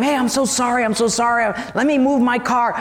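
imitated flustered politeness; apologetic stranger. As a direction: apologize eagerly for being in the way. Car owner apologizes in story.

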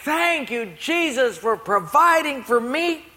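high, drawn-out thanks; grateful lady. Acted. Poor lady thanking Jesus on her porch, joyful praise. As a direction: imitate a devout lady praising aloud. Lady's morning thanks, acted.

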